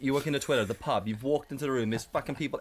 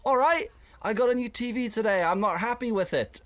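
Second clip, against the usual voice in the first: mock chatty lean-in; 10 semitones higher, 3 dB louder than usual. Leaning into a small group.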